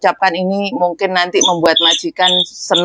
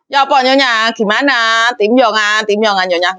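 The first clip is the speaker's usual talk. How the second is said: rude reply; 4 semitones higher than usual. Retold or imitated. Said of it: "Nggak mungkin".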